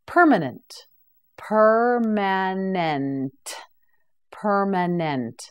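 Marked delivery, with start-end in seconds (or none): 1.4-3.3 very slow, drawn-out syllables; slow model word. Shown as a demonstration. Teacher models the word for students, very slowly. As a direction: stretch it out for the learner. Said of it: "You say it, permanent".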